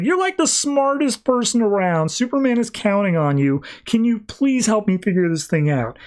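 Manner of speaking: high-pitched, exasperated mock yell; retold yelling. Lois begs Batman for help, yelling in exasperation. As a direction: plead at high pitch without much added volume. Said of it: "And Lois is just yelling".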